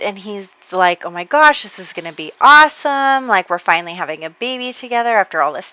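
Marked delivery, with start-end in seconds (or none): 1.0-5.7 loud, eager gush of delight; thrilled at finally having a baby; excited. Retold or imitated. Husband celebrating the pregnancy, excited. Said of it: "they're both very excited about it".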